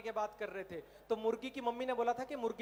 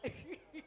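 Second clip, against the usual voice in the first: cartoon giggle; 5 semitones higher, 10 dB quieter than usual. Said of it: "वो कहते".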